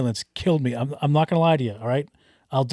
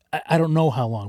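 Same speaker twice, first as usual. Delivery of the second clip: ordinary talk, nothing marked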